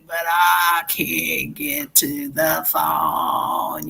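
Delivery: mock voicemail greeting, stretched out; put-on answering machine voice; fake answering message. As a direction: pretend to be a recorded message. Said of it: "I'll put it on mute and I'll say".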